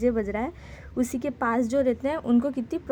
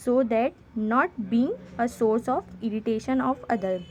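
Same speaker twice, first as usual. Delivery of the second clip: slow, careful dictation pace; slow read-aloud; much slower than usual. Shown as a demonstration. Teacher reading the sample letter to students, slow dictation. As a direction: read each English word out slowly for the class.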